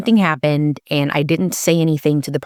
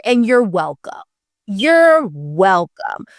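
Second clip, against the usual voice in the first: sassy you're welcome; much slower than usual. Real, not acted. Sassy repeated sign-off.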